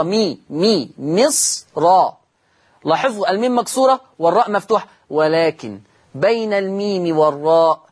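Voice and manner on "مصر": مصر drawn out very slowly with a heavy ر. Shown as a demonstration. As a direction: spell out مصر slowly, letter by letter. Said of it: "لاحظوا الراء مفتوحة والميم مكسورة". (نطق مصر ببطء شديد)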